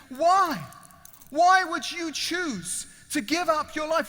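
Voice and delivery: loud, high, insistent questioning; urgent, baffled plea. Acted. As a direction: demand an answer from your rescuer. Freed prisoner questions the stranger.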